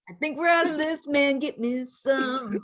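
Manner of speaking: goofy mock head honcho, drawn out at the end; hammed-up order, last words stretched; goofy lyric quote. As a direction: quote it like a silly big boss. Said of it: "The lyrics are just so goofy".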